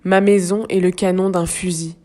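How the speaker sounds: measured, slightly projected poetry recitation; deliberate phrases set apart by pauses; poem reading. Acted. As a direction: read the verse gravely, pausing between lines. Reads another part of poem.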